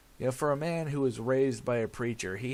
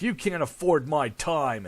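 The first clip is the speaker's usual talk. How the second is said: louder, curt father's brush-off; mock cold dad; 4 semitones higher, 8 dB louder than usual. Son imitating father refusing to help, curt. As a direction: dismiss him like a busy boss.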